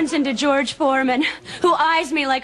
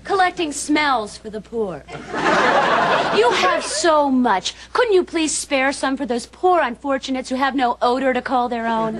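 mock charity plea. Neighbor pretending to collect for the poor, mock pleading.

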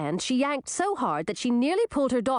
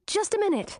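high-pitched urgent princess; young heroine's high, pressing plea; urgent interjection; 11 semitones higher than usual. A narrator's reading. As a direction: cut in, pitched well up. Princess urgently stops departing friend.

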